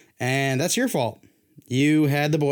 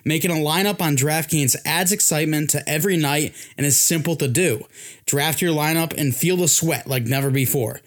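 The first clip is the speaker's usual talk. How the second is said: steady, polished sponsor read; 3 dB louder than usual. Acted. Podcast host pitching fantasy sports to listeners, ad read. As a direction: read the copy with punchy emphasis.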